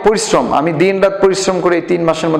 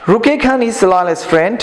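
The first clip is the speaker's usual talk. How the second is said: slow reading aloud; 4 semitones higher, much slower than usual. Shown as a demonstration. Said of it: "উচ্চারণগুলো খেয়াল করবা".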